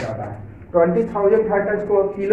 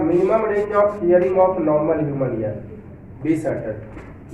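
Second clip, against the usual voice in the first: slow dictation; much slower than usual. Shown as a demonstration. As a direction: dictate it word by word, very slowly. Teacher dictating notes to students. (धीरे-धीरे लिखवाते हुए)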